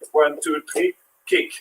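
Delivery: quiet count, fling kick up high; kick leaps high. Shown as a demonstration. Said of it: "So now we're gonna play football".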